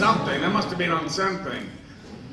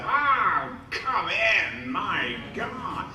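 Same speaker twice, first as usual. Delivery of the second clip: high, slow languid actor voice; a stoned star welcoming a guest; lazy O'Toole drawl; 3 semitones higher, much slower than usual. Retold or imitated. O'Toole inviting him to smoke, languid and high.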